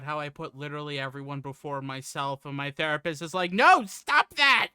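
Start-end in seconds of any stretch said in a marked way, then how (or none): 3.5-4.7 loud, slow scolding. Retold or imitated. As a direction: scold it like a stern therapist. Therapist scolding, quoted.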